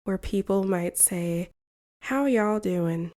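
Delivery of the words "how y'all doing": a hint of a relaxed Southern accent. Shown as a demonstration. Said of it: "there is the Southern accent".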